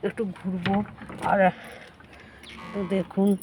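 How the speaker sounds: talking around a toothbrush; words slurred by brushing; while brushing teeth. Real, not acted. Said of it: "brush করছি দেখতেই পাচ্ছেন".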